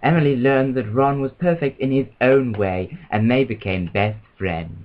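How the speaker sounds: slow, measured storybook reading; unhurried picture-book narrator; story narration. Acted. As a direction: read it out slowly to children. Reads a children's story aloud.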